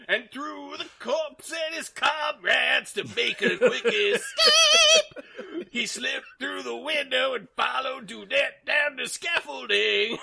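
laughing excitement. Acted. Excited narration with shouts, laughs.

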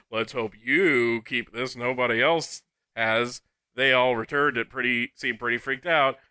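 lightly put-on British shopkeeper; mild British clerk voice; British accent. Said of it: "I'm British, apparently".

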